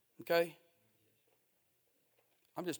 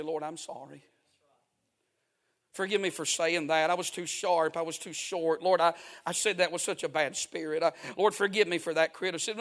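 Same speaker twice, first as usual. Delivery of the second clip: repentant prayer; 4 semitones lower than usual. Pretend. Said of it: "you just right then say".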